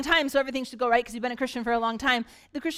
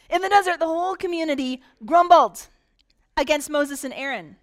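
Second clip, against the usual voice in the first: emphatic reading; 2 semitones higher, 6 dB louder than usual. Shown as a demonstration. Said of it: "give me a sound of grumbling".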